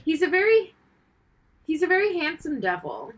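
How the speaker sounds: put-on old Hollywood transatlantic accent; a lightly done transatlantic accent, like Katharine Hepburn. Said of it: "I sounded like an old Catherine Hepburn there".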